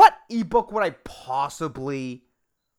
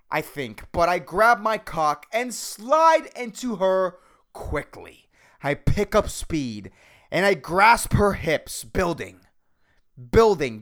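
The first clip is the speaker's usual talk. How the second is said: podcasting-voice erotica reading. Shown as a demonstration. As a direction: read erotica in a punchy podcast voice. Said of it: "read this with my podcasting voice".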